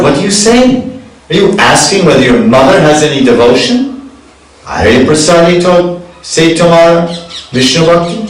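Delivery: high, heated chanted reproach; angry Damodar Pandit. A narrator's reading. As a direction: sing the verse as an indignant, offended devotee. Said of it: "he became angry".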